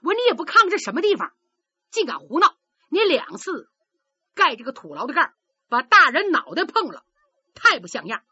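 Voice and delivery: fast, loud indignant rebuke; angry scolding. Acted. Young fighter scolding a rival boy, angry outburst. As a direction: tell him off hotly for the foolishness. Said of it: "钱亮一听生气了".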